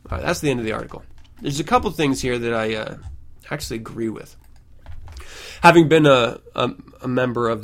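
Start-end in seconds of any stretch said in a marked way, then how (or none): none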